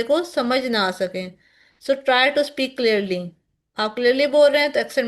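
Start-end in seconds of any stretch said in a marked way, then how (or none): 1.8-3.3 very slow, each word spaced; slow and deliberate. Shown as a demonstration. Teacher modelling clear speaking for students, very slow delivery. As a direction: model clear speech slowly. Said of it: "teacher gives instruction".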